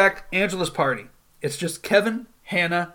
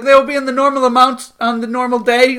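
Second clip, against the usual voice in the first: louder, higher mock-panicked outburst; playful panicked quote; retold panic; 6 semitones higher, 7 dB louder than usual. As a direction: imitate someone getting flustered, voice raised. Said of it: "she's panicking".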